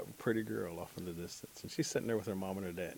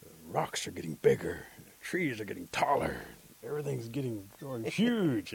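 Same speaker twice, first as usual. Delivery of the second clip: amazed; 3 dB louder than usual. Acted. Man amazed as world seems to grow.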